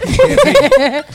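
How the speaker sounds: high, slow words through laughter; laughing. Real, not acted. Co-host amused by the teasing, laughing. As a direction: crack up while saying it.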